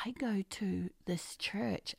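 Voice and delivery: unvoiced, hushed whisper; whispered confession. Crew member quietly confessing to the preacher. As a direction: breathe it like a secret. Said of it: "they would quietly say".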